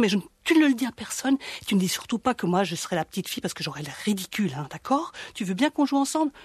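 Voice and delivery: coaxing predator, quick and wheedling; sugary voice. Acted. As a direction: talk her into a secret game. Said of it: "lui parle avec sa voix doucereuse".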